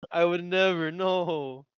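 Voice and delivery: emphatic. Real, not acted. Emphatic loud denial.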